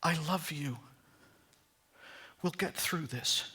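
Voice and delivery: quiet, understated reassurance; simply said. Retold or imitated. Fiancé to his bride-to-be after hearing her story, simply and tenderly. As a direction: say it softly and simply, retelling his words. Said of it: "he said simply".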